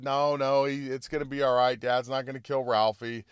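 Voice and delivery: understated soothing mom voice; mild reassurance. Acted. Mom calms the scared little brother, mildly reassuring. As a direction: gently settle a worried child.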